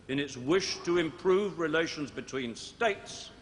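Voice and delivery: slow, with weight laid on "states"; stress on states. Shown as a demonstration. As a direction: lean on the final word "states". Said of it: "I emphasize the word states".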